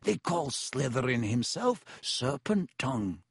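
a slow, deliberate schoolboy accuser; lightly voiced Ernie. Schoolboy warning his housemates about Potter, slow and accusing. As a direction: make the case slowly, as if revealing proof.

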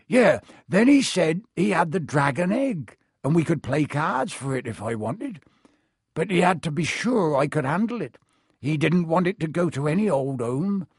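rambling, recalling a card game; casual boast from a storytelling groundskeeper; lightly voiced Hagrid. Hagrid recounts meeting stranger.

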